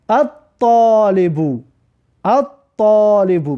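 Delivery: slow الطالبو said at-talibu, doubled t; lam silent. Shown as a demonstration. Teacher drilling students on the sun letter, silent lam. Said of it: "ببین لام تلفظ نکردیم".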